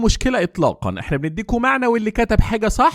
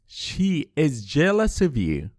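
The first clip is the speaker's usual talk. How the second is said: very slow, softer, She is split apart; slow full form; 2 semitones lower, 4 dB quieter, much slower than usual. Shown as a demonstration. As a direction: model the full form word by word. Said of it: "يا ترى إزاي نقول". (ببطء مع فصل She is)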